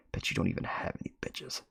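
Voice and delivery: a sulky aside only half voiced; whispered mutter. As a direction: whisper it under the breath. Muttered under breath.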